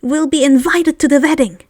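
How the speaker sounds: high, eager house elf; a lightly voiced excited elf. House elf speaking to Harry.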